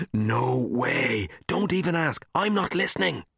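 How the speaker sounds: put-on high, stubborn kid voice; high refusing boy. A narrator's reading. A boy refuses Marty's dare, high stubborn voice. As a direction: refuse like a kid covering his ears.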